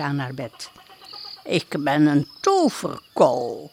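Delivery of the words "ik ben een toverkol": put-on lower, slow old witch voice; a sly little old witch introducing herself. Old witch at the princess's bed, low and slow. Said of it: "fluisterde het vrouwtje".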